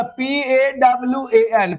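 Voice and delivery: slow spelling, letter after letter; spelled out. Shown as a demonstration. Teacher showing corrected English spelling, slowly letter by letter. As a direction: give each letter its own slow beat. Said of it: "तो क्या देगा".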